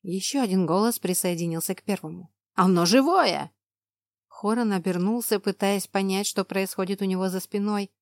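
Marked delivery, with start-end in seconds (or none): 2.5-3.5 loud scared exclamation; frightened cry. Acted. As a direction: cry out in fear. Frightened soldier cries out. (испуганный возглас)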